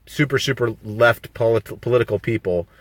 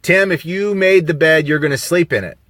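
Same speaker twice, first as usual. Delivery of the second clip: lightly played stern mother; imitating mom; 5 semitones higher than usual. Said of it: "My mom used to say".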